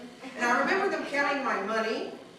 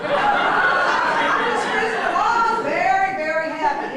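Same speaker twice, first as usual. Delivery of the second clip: giggling through the words, slowed right down; laughing; 8 semitones higher, 8 dB louder, much slower than usual. Retold or imitated. Recalling the crash, laughing it out. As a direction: laugh out the memory of being high.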